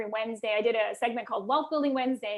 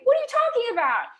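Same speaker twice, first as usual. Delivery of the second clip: retold bark; 11 semitones higher, 6 dB louder than usual. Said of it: "And he's like".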